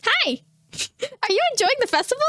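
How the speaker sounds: high, bright-eyed mock greeting; creepy cheerful greeting. Streamer mimicking the masked child's greeting, high and chirpy. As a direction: play the creepy masked kid saying hi. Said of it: "then you're like".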